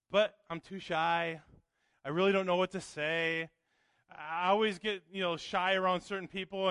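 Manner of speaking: low, subdued voice of a reluctant believer; shy excuse-maker. Acted. Preacher voicing a shy churchgoer's excuses, mock-meek. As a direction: lightly mimic someone too shy, making meek excuses.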